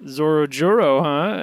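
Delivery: loud, slow, teasing villain; sly taunt. Retold or imitated. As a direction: drawl it out like a smug villain. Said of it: "Queen just goes".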